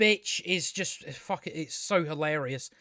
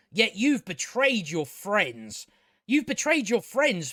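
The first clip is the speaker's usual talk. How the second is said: high and mighty; slower than usual. Retold or imitated. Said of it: "It's the way she says it and all".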